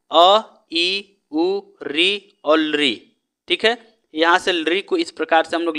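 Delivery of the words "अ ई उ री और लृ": each short vowel अ, ई, उ, री, लृ said crisply one by one; short vowels recited. Shown as a demonstration. Teacher reciting the five short vowels to students, slow and distinct. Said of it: "पांच हमारे पास ह्रस्व स्वर हैं".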